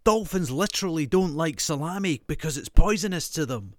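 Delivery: put-on high eager child voice; kid stating fact. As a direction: announce it like a know-it-all kid. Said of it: "false facts".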